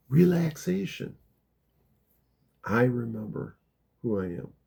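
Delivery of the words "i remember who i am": loving. Shown as a demonstration. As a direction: say it lovingly, settling down softly on the last words. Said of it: "say it with love".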